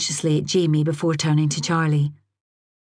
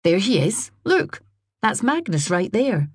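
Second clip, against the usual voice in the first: forced breeziness; 4 semitones higher than usual. A narrator's reading. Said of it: "with forced breeziness".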